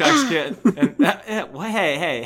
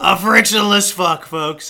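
Trump impression; slower than usual. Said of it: "My Trump impression".

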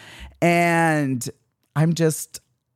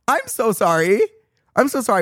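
mock apology; 10 semitones higher than usual. Mock apology, high pitch.

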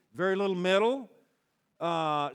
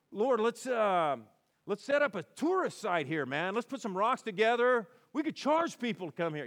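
higher-pitched, eager mock proposal; 4 semitones higher than usual. Peter proposes a tourist site to Jesus, eagerly. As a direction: pitch a bright idea with enthusiasm.

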